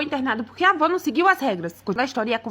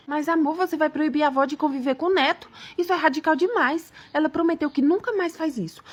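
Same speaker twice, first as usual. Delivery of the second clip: pleading husband; 2 semitones higher than usual. Acted. Husband asks wife to forgive his mother, pleading. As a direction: plead the case in a raised pitch.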